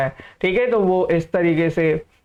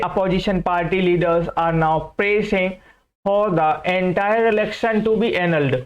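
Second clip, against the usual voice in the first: very slow reading; much slower than usual. Shown as a demonstration. Teacher reading the example sentence to students, very slow. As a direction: read the example slowly, word by word. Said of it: "teacher reads example sentence".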